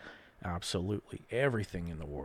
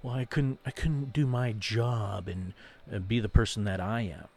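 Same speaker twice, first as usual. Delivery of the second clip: mocking quote; 2 semitones higher, 4 dB louder than usual. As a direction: mimic the lame excuse. Mocks what coworkers say.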